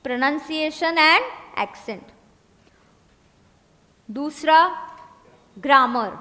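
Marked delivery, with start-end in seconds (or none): 0.0-2.1 very slow, word by word; slow dictation. Shown as a demonstration. Teacher dictating first point, slow. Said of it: "लिखा क्या?".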